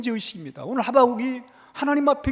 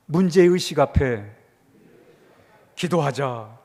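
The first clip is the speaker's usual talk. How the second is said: call and response; 9 semitones lower, slower than usual. Shown as a demonstration. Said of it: "한번 따라합니다".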